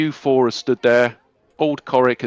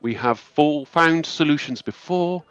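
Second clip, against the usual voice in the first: high, measured voice of a graceful elf leader; calm high elf lady; 3 semitones higher than usual. Acted. Elf lady calming the angry townsfolk, high and measured. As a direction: soothe the crowd with calm authority. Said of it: "this high elf lady addressing the crowd going".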